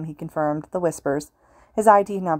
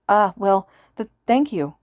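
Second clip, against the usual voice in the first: shaky; 3 semitones higher, 3 dB louder, slower than usual. A narrator's reading. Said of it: "the teen replied shakily".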